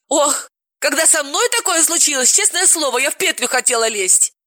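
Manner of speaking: high, theatrical sigh; dramatic Galina. Acted. Galina recalls her own despair, high and theatrical. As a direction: overdo it like a drama queen.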